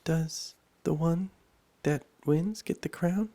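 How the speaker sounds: high, halting, breathless question; out of breath. A narrator's reading. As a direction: ask in puffs, winded from the run. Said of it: "quite out of breath".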